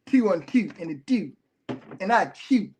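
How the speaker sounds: mock Baltimore accent on the vowels; lightly mocking Baltimore pronunciation. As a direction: imitate a Baltimore accent, word by word. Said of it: "that's the worst accent in the world".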